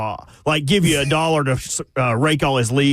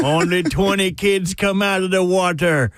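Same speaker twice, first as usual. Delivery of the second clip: put-on Irish accent; 2 semitones higher than usual. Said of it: "slowly turned redneck in that Irish accent".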